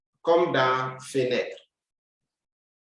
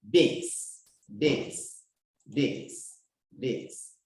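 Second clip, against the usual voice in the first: each "beans" softer, down to almost nothing; fading repeat; 5 dB quieter, much slower than usual. Shown as a demonstration. Teacher repeating "beans", fading out softly. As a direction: let "beans" die away each time. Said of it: "fading repetition".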